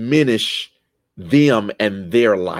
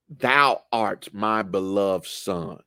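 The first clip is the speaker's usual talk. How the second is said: slow, softer loving announcement; tender voice of God; 3 semitones lower, 5 dB quieter, slower than usual. Retold or imitated. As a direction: speak it like a father's blessing. God's words, slow and soft.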